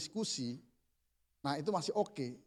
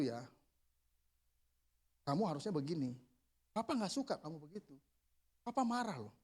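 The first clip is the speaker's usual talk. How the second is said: soft, low, controlled fatherly telling-off; quietly firm, without raising the voice; calm parental reproof; 4 semitones lower, 5 dB quieter than usual. Acted. Father gently telling his child not to repeat it, calm reproof.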